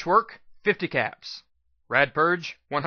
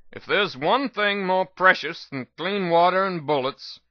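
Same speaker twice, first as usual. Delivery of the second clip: lightly voiced old doctor, cool and earnest; a hint of weary wasteland elder lecturing; 3 semitones higher than usual. Old doctor lectures the young mare, cool and earnest. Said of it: "He looked at me coolly".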